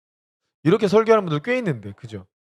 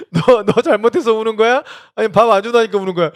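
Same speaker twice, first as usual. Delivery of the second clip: higher, louder playful teasing; 6 semitones higher, 7 dB louder than usual. Retold or imitated. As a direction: needle the child gently. Teasing the crying child.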